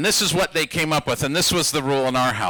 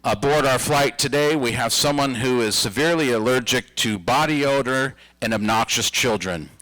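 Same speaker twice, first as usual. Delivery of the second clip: flight attendant announcement; 5 semitones lower than usual. Retold or imitated. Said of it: "hear the flight attendant come on the intercom".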